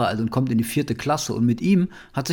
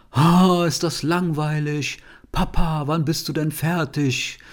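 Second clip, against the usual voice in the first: a hint of a groaning, impatient kid; imitating a whiny bored son; 2 semitones higher than usual.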